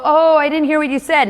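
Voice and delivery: high, put-on customer voice; imitating customer. Auditory customer who missed the pitch, high imitation. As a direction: lean in like you missed it.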